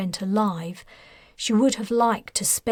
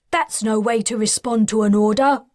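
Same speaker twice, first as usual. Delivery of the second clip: louder, stern reprimand; barked rebuke; 5 dB louder than usual. Acted. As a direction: scold like a drill officer. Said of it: "barked the officer".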